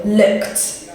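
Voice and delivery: "looked" ending in k plus t. Shown as a demonstration. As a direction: close "looked" on a crisp voiceless kt. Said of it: "pair it with a T sound".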